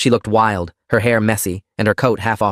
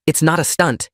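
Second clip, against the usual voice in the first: hysterical; 6 semitones higher than usual. Acted. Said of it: "Alice was hysterical".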